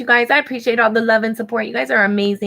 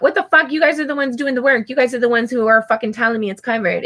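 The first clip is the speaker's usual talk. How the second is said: angry rant; 2 semitones higher than usual. Real, not acted. Venting to viewers about the dental office, angry outburst. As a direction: vent at the dental office that lied to you.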